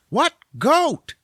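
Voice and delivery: high, loud squawk of disbelief; baffled outcry. Acted. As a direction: blurt it as the baffled bookworm. Bookworm baffled by the goat answer.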